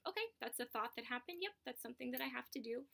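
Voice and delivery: quick, matter-of-fact self-talk; note the thought briskly and move on; brisk acknowledgment. Acted. Acting out noticing a thought, moving on.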